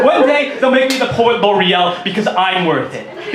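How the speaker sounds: laughing through the line again; laughing retake. Real, not acted. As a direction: say it slowly, still laughing. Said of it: "that is the dumbest line I've ever written".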